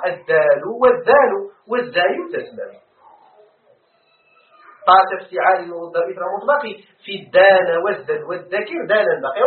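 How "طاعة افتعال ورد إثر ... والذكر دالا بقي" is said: reciting verse. Shown as a demonstration. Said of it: "ذكر ابن مالك".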